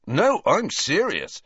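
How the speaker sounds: slow, high-pitched earnest insistence. A narrator's reading. Ron reassures Luna about her commentary, earnest. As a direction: insist that you mean it. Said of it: "said Ron earnestly".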